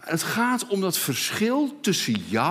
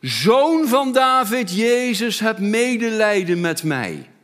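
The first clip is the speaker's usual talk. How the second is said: luid smekend uitgeroepen; roepend; 2 semitones higher, 7 dB louder than usual. Acted. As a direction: roep het smekend uit. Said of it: "begon hij te schreeuwen". (luid smekende roep)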